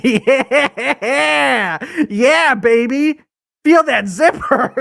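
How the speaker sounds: lightly voiced, slow sleazy purr through a laugh; a hint of a cheesy lover; sleazy seducer. Guy teasing women with the zipper, mock sleazy. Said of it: "and be like".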